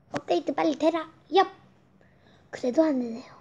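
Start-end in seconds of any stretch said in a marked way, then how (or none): 0.1-1.5 magic spell. Pretend. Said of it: "주문을 외우자".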